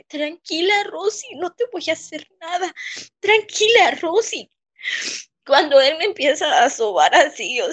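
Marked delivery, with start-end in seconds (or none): 0.0-4.5 imitating the teacher's repulsive coaxing voice, a touch higher; creepy soothing teacher. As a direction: mimic his oily, lustful calm-down tone. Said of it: "era su voz así de que".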